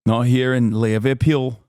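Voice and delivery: put-on Liverpool accent; a go at a Scouser accent; Scouse accent. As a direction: do a rough Scouse impression. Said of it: "what the Scouser accent sounds like".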